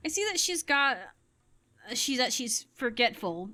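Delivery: carefully polite, hesitant hedging; tactful counselor. Retold or imitated. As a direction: tiptoe politely around the awkward word. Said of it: "the way adults would say it".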